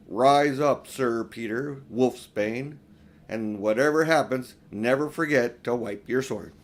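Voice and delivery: grand solemn proclamation; solemn knighting. Acted. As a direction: knight him with ceremony. Aslan knights Peter.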